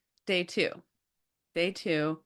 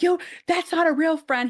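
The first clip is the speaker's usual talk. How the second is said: high, loud mock tough kid; 11 semitones higher, 6 dB louder than usual. Big brother Dominic scoffing at Timmy, high and loud. Dominic voiced in retold story.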